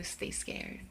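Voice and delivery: soft, airy sign-off; quiet spooky farewell; hushed catchphrase. Pretend. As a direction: say it low, almost under the breath. Catchphrase sign-off, said low first.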